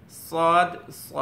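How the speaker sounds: "সদ" with a heavy, full s. Shown as a demonstration. Teacher introducing the heavy Arabic letter, full "সদ". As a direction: sound "সদ" thick and full, vowel held. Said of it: "এটা একটু ভারীভাবে".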